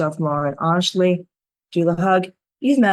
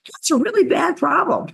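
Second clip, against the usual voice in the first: high, mock-serious understatement; deadpan understatement; 12 semitones higher than usual. Healer reacting to the camper's story with mock-serious high understatement. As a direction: say it like an obvious, comic understatement. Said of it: "I'm like".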